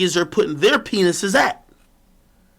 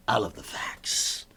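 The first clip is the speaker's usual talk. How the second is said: soft unvoiced aside; 8 semitones lower, 13 dB quieter, slower than usual. Contrasting soft and loud repeats.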